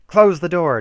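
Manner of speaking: high, loud order; urgent demand. A narrator's reading. Ada bursts in and orders the door shut, loud. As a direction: shout it as she runs in. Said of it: "demanded Ada".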